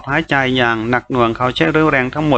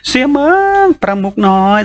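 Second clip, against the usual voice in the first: calling out; 10 semitones higher, 4 dB louder than usual. A narrator's reading. Companions calling to the struggling young lord, raised cry. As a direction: call desperately to someone slipping away.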